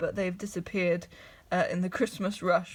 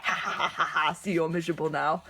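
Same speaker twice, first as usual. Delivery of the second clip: lightly hammed-up villain cackle; the island mocks the villagers with a gleeful laugh; mock gloating laugh; 3 semitones lower than usual. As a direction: gloat at them, half-laughing. Island gloats over snow.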